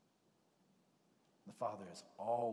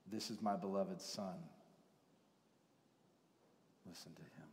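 low and softer, fading to a whisper; voice from the cloud; 5 semitones lower, 6 dB quieter than usual. Acted. God speaking from the cloud to the disciples, hushed. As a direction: let the divine words sink in hushed. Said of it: "a voice came out of the cloud".

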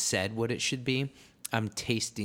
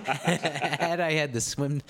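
laughing while talking; 5 semitones higher, slower than usual. Real, not acted. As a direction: talk through a chuckle. Laughing at the joke.

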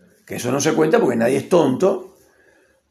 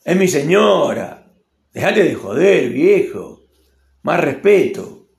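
put-on offended boyfriend. Argentine man scolds a friend for praising his woman, mock indignant. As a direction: warn him off, mock offended. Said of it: "porque te dice".

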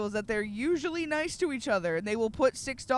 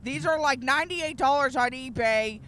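higher, eager salesman pitch; mock card seller; 4 semitones higher, 5 dB louder than usual. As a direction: hawk the card like a proud nerd. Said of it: "a guy was like".

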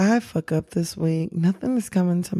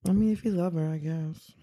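half-hearted, trailing off softly; reluctant, fading shrug of a line; unenthusiastic; 7 dB quieter than usual. Real, not acted. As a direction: concede it with no enthusiasm. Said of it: "The enthusiasm in your voice".

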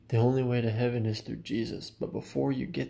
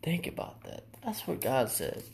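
whisper; 3 semitones higher, 5 dB quieter than usual. Real, not acted. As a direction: drop to a breathy whisper to make them think. Preacher urging listeners to reflect.

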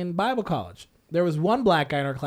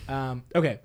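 normal talking voice

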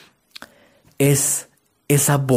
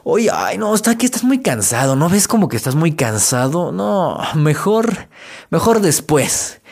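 lightly voiced coaxing witch, higher; whiny witch; 4 semitones higher, slower than usual. Inner witch talking you out of exercise, higher whiny witch voice. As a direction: wheedle like a lazy inner witch, a touch hammed. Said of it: "Llega la bruja y te dice".

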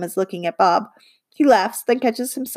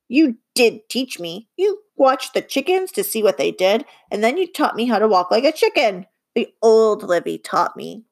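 lightly voiced earnest little creature; Bob's voice. Bob telling Livy she taught him, lightly voiced earnest creature.

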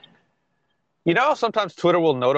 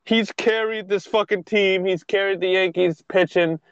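defensive fan; 4 semitones higher than usual. Retold or imitated. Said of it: "There was people going".

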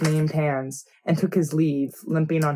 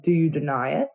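low, cold and menacing; Roose Bolton voice; 3 semitones lower than usual. Acted. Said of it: "Do your Roos voice".

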